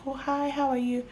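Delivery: high, bright fake-polite hello; forced polite greeting. Greeting a client with forced politeness while angry. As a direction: greet them sweetly while pissed. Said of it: "I'm like".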